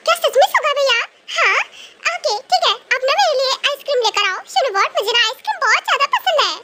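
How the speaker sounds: put-on a kid thrilled by the offer; eager young girl. Eager girl asking Suga for ice cream, delighted.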